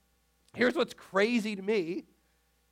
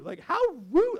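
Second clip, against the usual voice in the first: put-on a light sitcom-kid "how rude", pitched higher with "rude" rising; sassy catchphrase, higher and lilting; Stephanie Tanner; 7 semitones higher than usual. Pastor's tribute to Bob Saget, higher Stephanie Tanner take. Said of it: "That's good old Stephanie Tanner".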